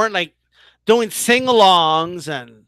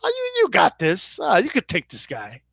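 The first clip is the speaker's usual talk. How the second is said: dismissive brush-off; 3 semitones lower, 4 dB quieter than usual. Retold or imitated. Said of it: "Just dismissed him".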